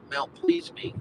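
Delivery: high, playful lilt on Mount Please Me; teasing nickname. Real, not acted. Joking to viewers about the rich suburb, in a teasing lilt. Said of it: "I call it, fun-lovingly".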